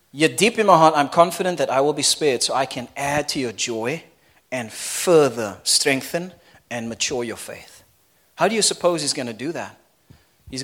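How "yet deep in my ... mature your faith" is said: scripture reading. Acted. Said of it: "Let me read it one more time".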